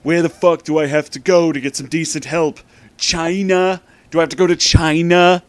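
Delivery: high, loud indignant Trump rant; Donald Trump impression. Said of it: "I'm doing my best Donald Trump impression".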